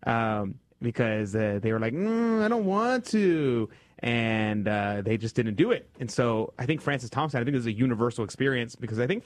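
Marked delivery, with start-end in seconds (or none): 1.9-3.7 high, slow, whiny refusal; reluctant child. Retold or imitated. Priest voicing his sisters refusing grandpa, high and whiny. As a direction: drag it out like a sulky kid.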